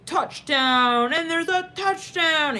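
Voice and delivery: stretched-out, high mock commentary; sportscaster call. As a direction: call it like a game announcer. Imitates sportscaster calling touchdown.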